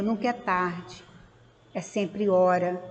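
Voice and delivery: soft, low and slow; retold motherly comfort, unhurried and hushed; gentle reassurance. Mother gently consoles her son, retold.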